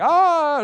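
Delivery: loud, high "ah" of discovery; discovery cry. Acted. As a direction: let out a mock eureka cry. Mimes finding the index entry.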